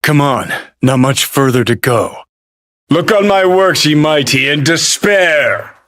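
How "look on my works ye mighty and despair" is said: high, booming poetic proclamation; grand declamation. Acted. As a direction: declaim it like a triumphant tyrant. Declaims a quoted poem.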